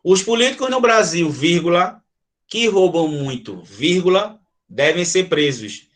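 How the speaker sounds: "os políticos no Brasil", then the word "vírgula", "que roubam muito", "vírgula", "devem ser presos"; spoken commas. Shown as a demonstration. Teacher reads the commas aloud for the class, pausing at each. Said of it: "quando eu digo assim, ó".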